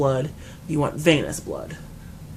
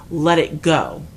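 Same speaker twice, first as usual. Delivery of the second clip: louder firm let it go; firm command; 6 dB louder, slower than usual. Retold or imitated. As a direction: shut her down firmly. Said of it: "I said".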